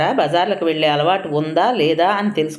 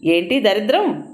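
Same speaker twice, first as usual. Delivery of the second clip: high scolding outburst; husband scolding wife over the unclean toilet; angry shouting; 8 semitones higher than usual. A narrator's reading. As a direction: scold her sharply, pitched up. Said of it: "గట్టిగా అరుస్తూ".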